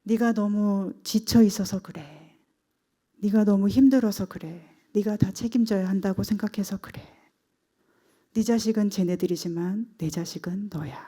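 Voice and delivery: retold motherly comfort, softening toward the end; gentle comforting. Grandmother comforting her exhausted daughter, gentle retold reassurance. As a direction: gently imitate a mother soothing her grown child. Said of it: "따뜻하게 다독여줍니다".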